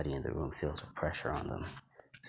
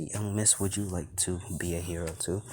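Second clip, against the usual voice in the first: ordinary delivery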